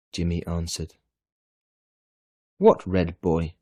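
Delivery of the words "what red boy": a startled, louder "what" from the mother; mother caught off guard, asking in surprise; surprised question. A narrator's reading. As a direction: ask it taken aback. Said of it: "his mother asked in surprise".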